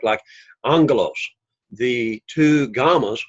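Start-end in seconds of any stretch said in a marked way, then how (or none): 0.6-1.1 "angelos" as ANG-gelos, breaking at the NG; syllable break demo. Shown as a demonstration. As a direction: stress the first syllable of "angelos", with NG sound. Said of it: "that's where the word's gonna break".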